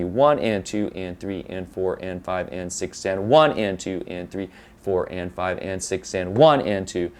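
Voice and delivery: steady count, "one" lifted above the other numbers; six-beat emphasis. Shown as a demonstration. Teacher showing where the emphasis is, stress on each "one". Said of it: "it's a matter of where the emphasis is".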